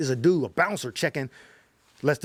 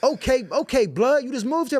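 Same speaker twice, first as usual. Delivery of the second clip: higher, lighter mock Blood easing up; gang member voice; 9 semitones higher than usual. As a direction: pitch it up like the friendly gang member.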